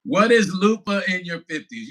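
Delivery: amused exclamation of the topic; excited reread. Shown as a demonstration. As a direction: blurt the title out, still laughing.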